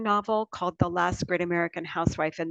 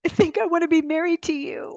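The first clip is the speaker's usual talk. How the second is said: quoting herself; 10 semitones higher, 3 dB louder than usual. Retold or imitated. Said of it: "I was like".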